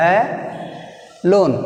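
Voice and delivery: "a" and "lone" split by a pause; syllable by syllable. Shown as a demonstration. Teacher showing the two syllables of alone. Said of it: "This is the first syllable".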